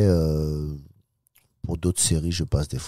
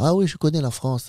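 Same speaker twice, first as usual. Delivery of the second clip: taxi driver voice; 11 semitones higher, 3 dB louder than usual. Retold or imitated.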